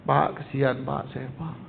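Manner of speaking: slow, soft mock begging plea; pleading beggar. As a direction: beg pitifully, lightly voiced. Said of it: "memelas gitu". (memelas minta dikasihani, pelan dan lirih)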